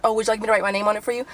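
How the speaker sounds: quick mock-helpful offer; mildly sarcastic imitation; retold sarcasm. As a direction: imitate a sarcastic clerk, rattled off fast. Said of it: "she was being so fucking sarcastic".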